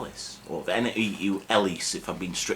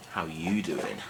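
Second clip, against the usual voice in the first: cheesy pickup line; 5 semitones lower, 5 dB quieter, slower than usual. Pretend. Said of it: "See, that's why I'm single".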